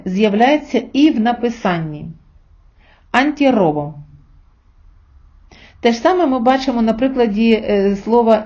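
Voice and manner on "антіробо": trilled, doubled r in «Антіробо»; strong double r. Shown as a demonstration. Teacher shows learners the compound word, strong double r. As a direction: roll the r in «Антіробо» long and strong. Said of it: "вона вимовляється як подвійна".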